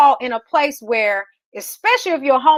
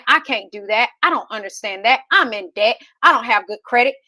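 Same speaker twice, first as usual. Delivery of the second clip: mock self-pity; 4 semitones lower than usual. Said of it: "putting ourselves in a box and saying".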